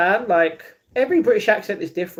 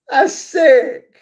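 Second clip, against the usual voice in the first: high, loud thrilled exclamation; excited approval; 8 semitones higher, 6 dB louder than usual. Real, not acted. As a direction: blurt it out, truly impressed. Thrilled at who appeared.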